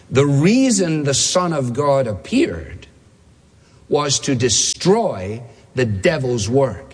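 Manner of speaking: slow, weighty reading with a long pause; slow quote reading. Shown as a demonstration. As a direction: read it out slowly, phrase by phrase. Quote announced, read out slowly.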